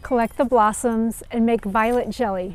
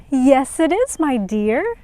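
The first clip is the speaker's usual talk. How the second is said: tender reply; 2 semitones higher, 4 dB louder than usual. Acted. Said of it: "said Sister Rainbow".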